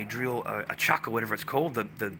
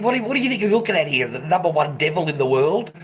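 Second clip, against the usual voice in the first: higher, louder and fast; indignant challenge; 3 semitones higher, 6 dB louder than usual. Retold or imitated. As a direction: fire it back at her, offended. Confronting the woman.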